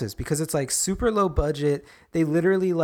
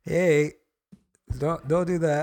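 higher, timid little plea; meek plea; 5 semitones higher, 5 dB louder than usual. Retold or imitated. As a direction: beg them meekly to stop. Re-enacting the masked kid's plea.

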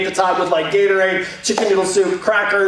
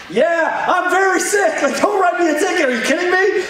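much higher, exasperated retelling of the protest; upset retold protest; 9 semitones higher than usual. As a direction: replay the outrage at the ticket, pitched high. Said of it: "I was so upset".

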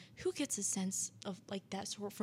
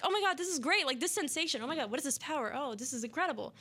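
very happy; 3 semitones higher, faster than usual. Retold or imitated. Jeff delighting in the kill, acted happily. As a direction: imitate someone thrilled by a new power. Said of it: "He was very happy".

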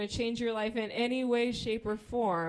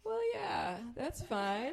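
awkward agreement; 2 semitones higher, slower than usual. Retold or imitated. Awkwardly agreeing to odd request.

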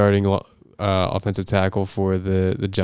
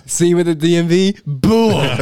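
louder, higher mock rant with laughter; imitating the rant; 9 semitones higher, 6 dB louder than usual. Friend quoting the radio host's rant, laughing mock shout. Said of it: "quoting the rant".

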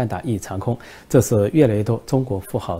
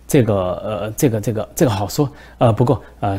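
心虚结巴; 4 dB louder than usual. Acted. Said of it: "习近平心里咯噔一声".

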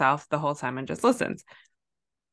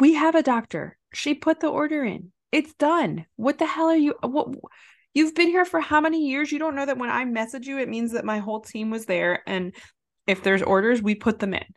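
exasperated rant; 6 semitones higher than usual. Retold or imitated. Retelling her rant to the coworker, high exasperated scolding. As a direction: tear into the clueless coworker, voice climbing.

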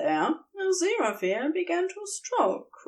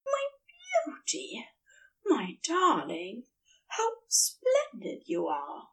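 adoring murmur; 7 semitones higher, 4 dB quieter than usual. A narrator's reading. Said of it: "Aziraphale said somewhere above him".

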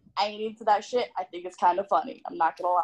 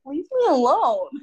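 louder and higher, a sharp final leave me alone; firmer leave me alone; 4 semitones higher, 5 dB louder than usual. Retold or imitated. Retelling her last reply to the pestering man, louder and fed up. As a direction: snap it back at him, fed up. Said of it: "And I was like".

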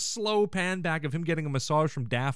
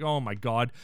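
lower, deflated retelling of dismay; crumpled; 5 semitones lower than usual. Retold or imitated. Host imitating Frasier once his dad leaves, mildly crumpled. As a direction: mildly voice a crumpled man's sinking dread. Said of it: "Fraser's crumpled".

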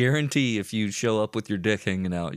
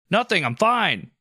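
higher, slow, louder put-on voice; mock nervous suspect; 10 semitones higher, 6 dB louder than usual. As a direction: play it cool while caught. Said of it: "suspect answering the cop".

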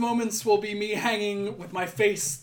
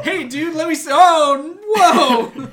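louder startled "whoa" as Gabriel; surprised angel; 6 semitones higher, 10 dB louder, slower than usual. Pretend. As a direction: catch him in the act, shocked.

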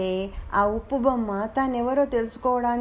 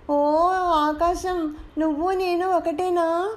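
calling out; 4 semitones higher than usual. Acted. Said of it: "గట్టిగా అరుస్తుంది".

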